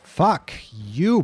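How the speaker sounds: yelled curse at the enemy; angry shout. Real, not acted. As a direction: snap it out loud and high. Swearing at game enemy.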